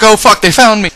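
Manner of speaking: high, loud panicked squeal; mock panic. Woman reacting to the sniper warning, high mock panic. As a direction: cry out in hammed-up alarm. Acting the woman's alarmed reply.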